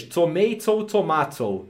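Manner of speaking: first tomato said the American way, tomato the second time said the Portuguese way; tomato either way. Shown as a demonstration. Explaining to viewers that it's all the same, tomato contrast. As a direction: contrast the two tomato sounds. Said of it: "como dizem em inglês".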